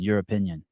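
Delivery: "your opinion" run together as one word, Euro-pinion; "your opinion" fused into yur-uh-PIN-yun; blended word. Shown as a demonstration. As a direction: say "your opinion" as a mash of European and opinion. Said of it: "mixed two words together".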